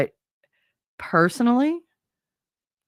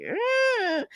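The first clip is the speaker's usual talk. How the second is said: grossed-out eh; 4 dB quieter than usual. Acted. Disgust at men asking mom.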